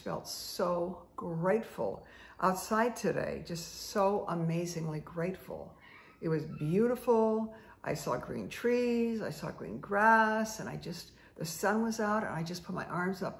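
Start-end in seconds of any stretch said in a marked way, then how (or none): none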